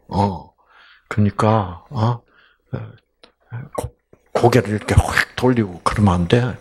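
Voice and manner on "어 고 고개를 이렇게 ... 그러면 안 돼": ordinary delivery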